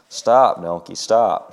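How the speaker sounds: breathless plea, lightly acted; gasped. Diana begs the runaway donkey, mildly frightened gasp. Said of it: "she gasped".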